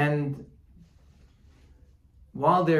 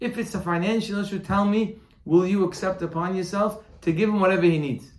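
urgent, fast and higher-pitched plea; pressing appeal; 5 semitones higher, faster than usual. Retold or imitated. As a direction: press him for a commitment, talking quickly. Rabbi presses wealthy man to commit.

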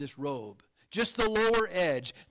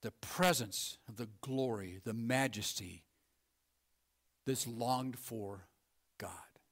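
much softer, sinking to a whisper on God; awed hush; 7 semitones lower, 8 dB quieter than usual. Real, not acted. Preacher lingering on God's glory, hushed to a whisper. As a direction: let it fade into a reverent whisper.

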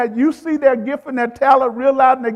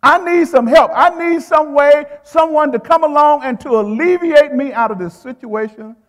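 voiced plea; 3 semitones higher, 3 dB louder than usual.

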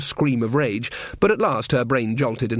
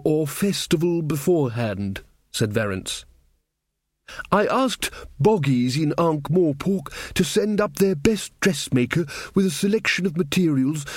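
Verence's voice; 4 semitones higher than usual. Acted. King Verence scolding the trumpeter, higher, fussy. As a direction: play the earnest little king going on about pigs.

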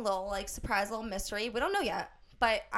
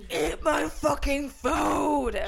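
drawn-out, louder mock yell; mock hostess shout; 2 semitones higher, 5 dB louder, much slower than usual. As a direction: bellow it slowly like a comically aggressive hostess. Mocking an aggressive hostess.

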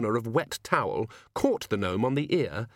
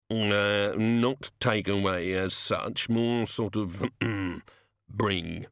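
reluctant gnome; much slower than usual. Acted. Gnome hedges, embarrassed.

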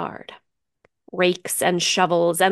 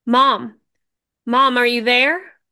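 louder, steadier calling out; stronger call; 4 semitones higher, 6 dB louder than usual. A narrator's reading. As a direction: call out with more strength. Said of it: "then stronger, asking again".

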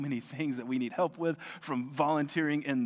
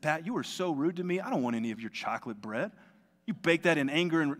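mock indignant; 3 semitones higher, 4 dB louder than usual. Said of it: "no, I didn't say that".

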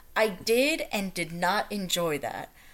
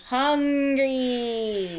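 mock yell; 4 semitones higher than usual. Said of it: "pointing at my gaping maw, saying".

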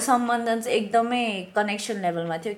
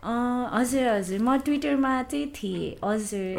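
customer service voice. Shown as a demonstration. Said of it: "This is my customer service voice".

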